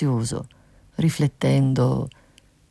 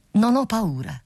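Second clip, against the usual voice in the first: brave cry; 7 semitones higher than usual. A narrator's reading. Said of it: "gridò più forte l'usignolo".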